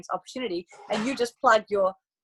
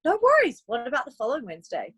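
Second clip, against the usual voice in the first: bubbly no worries. Retold or imitated. Recruiter to friend who can't come, chirpy. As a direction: keep it light and breezy.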